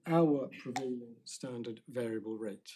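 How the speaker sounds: "prevailing" given measured emphasis within the phrase; stress on PREVAILING. Real, not acted. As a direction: mark out the word "prevailing" without raising the voice. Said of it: "I emphasize the word prevailing".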